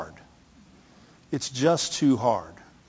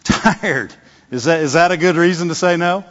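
retold challenge, a little louder on the question; mock incredulous challenge; 2 semitones higher, 4 dB louder than usual. God questions the father's excuse for saying no, mock incredulous. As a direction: question a weak excuse in pretend disbelief.

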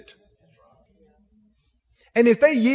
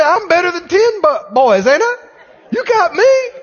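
higher, laughing tease; laughing boast; 6 semitones higher, 4 dB louder than usual. Acted. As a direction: brag through a laugh. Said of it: "He said".

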